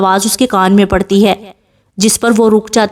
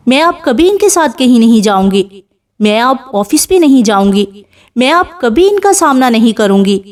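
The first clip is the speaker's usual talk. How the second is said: usual speaking voice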